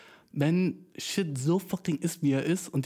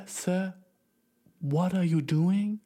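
mock incredulous; 5 semitones higher, much slower than usual. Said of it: "wo ich bin so".

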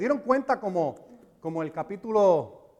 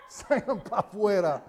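laughing; 5 dB quieter than usual. Retold or imitated.

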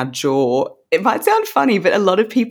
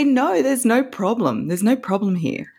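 reassuring; 6 semitones higher than usual. Retold or imitated. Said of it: "And I say".

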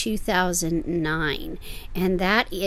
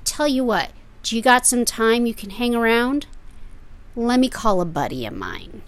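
coy dealer; 2 semitones higher than usual. Retold or imitated. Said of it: "they'll say".

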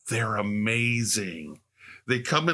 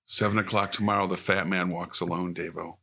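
low, hushed secret-agent code; spy code talk; 5 semitones lower, 4 dB quieter than usual. Pretend. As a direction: deliver it like a spy passing orders. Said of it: "they're just trying to talk in code".

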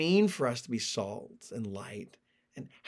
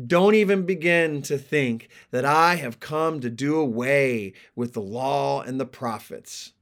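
measured, emphatic Bible reading; scripture reading. A narrator's reading. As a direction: read the passage out with deliberate weight. Reads the scripture passage aloud.

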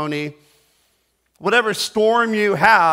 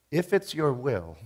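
timid mock plea; 3 semitones lower, 7 dB quieter than usual.

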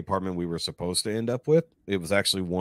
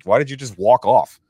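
louder, higher mock yell; retold yelling; 4 semitones higher, 7 dB louder than usual. Manager confronts the worker who walked off, yelling. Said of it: "starts yelling at me by name".

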